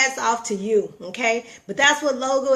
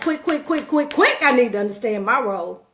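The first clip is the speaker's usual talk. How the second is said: urgent; 3 dB louder than usual. Retold or imitated. Urgently demanding to know her role.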